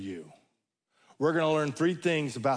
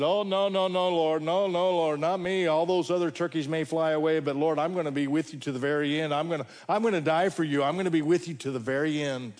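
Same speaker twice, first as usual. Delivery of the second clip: rapid, tumbling protest, pitched up at first; loudmouth Peter; faster than usual. Retold or imitated. Loudmouth disciple protests to his Lord that he will never desert him, rapid loudmouth bluster. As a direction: rush out over-eager promises as a loudmouth. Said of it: "Peter was a loud mouth".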